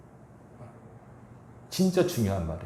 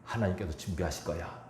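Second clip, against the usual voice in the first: 믿음의 말; 4 semitones lower, 9 dB quieter than usual. Acted. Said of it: "믿음의 말이에요".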